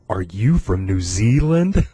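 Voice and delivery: slow question, lifting at the end; a hint of a wondering girl, drawn out; imitated curious girl. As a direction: lightly mimic a teenager asking in wonder.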